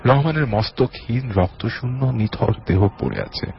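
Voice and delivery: dramatic audio-story reading; story narration. A narrator's reading. Host reads a listener's horror story, dramatic narration. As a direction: narrate with swooping phrase openings that fall away.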